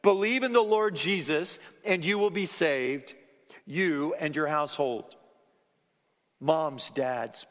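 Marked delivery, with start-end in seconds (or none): 0.0-5.2 proclaiming to adults. Shown as a demonstration. Preacher giving the jailer's answer to the congregation, loud and ringing. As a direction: announce it to the whole room.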